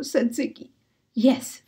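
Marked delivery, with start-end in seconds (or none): 1.1-1.6 whispered. A narrator's reading. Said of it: "whispered Fenton".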